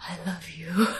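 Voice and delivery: whispering. Retelling a character's parting line after the other has already left, whispering.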